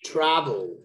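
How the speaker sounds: "Travel" with weight on TRA, falling; stress on first syllable. Shown as a demonstration. Teacher quizzing student on word stress, first syllable stressed. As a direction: lean on TRA, drop the second syllable. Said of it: "where is the stress?".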